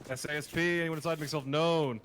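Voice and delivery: loud police callout to the building. Acted. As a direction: announce yourselves loudly, like a cop. SWAT callout to occupants.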